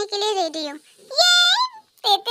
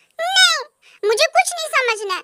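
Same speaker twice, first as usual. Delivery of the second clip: furious high outburst. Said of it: "तुम गुस्से में क्यों हो?".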